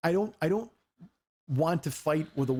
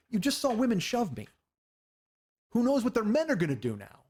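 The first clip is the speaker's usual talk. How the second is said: higher-pitched, incredulous retold protest; exasperated protest; 6 semitones higher than usual. Telling girlfriend women shoved him, exasperated protest. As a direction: make the case, pitch jumping up.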